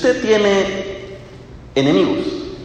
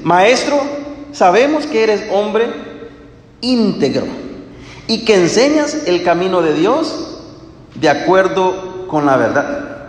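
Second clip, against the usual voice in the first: mock flattering; 2 semitones higher than usual. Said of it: "Qué hipócrita, ¿verdad?".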